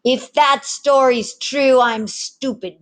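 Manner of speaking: put-on a boy calling the bluff, drawn out; scoffing lad.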